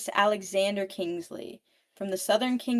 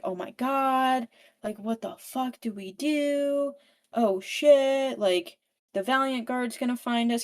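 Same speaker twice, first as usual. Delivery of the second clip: panicking; 4 semitones higher than usual. Retold or imitated. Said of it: "like, panicking".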